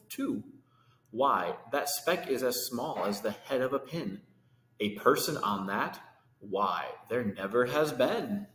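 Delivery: lively rhyming read-aloud; storybook reading. A narrator's reading. Reading Horton to kids, lively rhyming storytelling. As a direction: read the verse to children with bounce. Reads picture book aloud.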